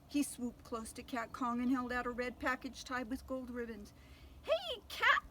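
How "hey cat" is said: high, loud call; captain shouts to lure the cat. Acted. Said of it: "he shouted".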